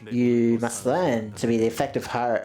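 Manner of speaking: formal mentor. Acted. Mentor instructing the new family hierarch, formal and measured.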